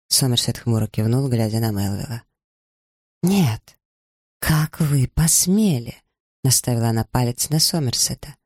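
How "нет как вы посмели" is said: angry outburst. A narrator's reading. Eliza furious at both men.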